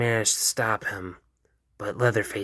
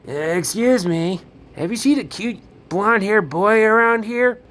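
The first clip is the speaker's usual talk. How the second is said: high polite question; 11 semitones higher, 7 dB louder than usual. Acted. Himeno asks a stranger.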